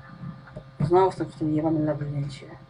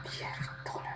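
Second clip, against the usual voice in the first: an exasperated whispered swear; whispered curse; 20 dB quieter than usual. Real, not acted. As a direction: breathe the curse out, defeated. Gives up under her breath. (szeptane przekleństwo)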